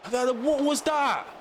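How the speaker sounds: high, slow, stretched-out shock; shocked disbelief. Real, not acted. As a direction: draw it out in astonishment. Shocked at play.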